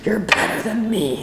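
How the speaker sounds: slow, dry sarcastic congratulations; deadpan mock praise. Real, not acted. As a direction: roll your eyes at the commenters. Sarcastic reply to commenters.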